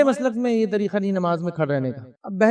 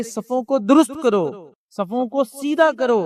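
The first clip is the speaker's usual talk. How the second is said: slow, raised, drawn-out imam's call; call to straighten rows; 3 semitones higher, slower than usual. Retold or imitated. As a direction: call the rows to order like an imam. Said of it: "تو کہتے کہ". (صفیں سیدھی کرنے کا دھیما، اونچا اعلان)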